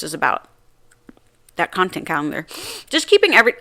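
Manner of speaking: talking with a whitening strip on; slightly muffled by the teeth strip. Real, not acted. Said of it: "I gotta take the whitening strip off".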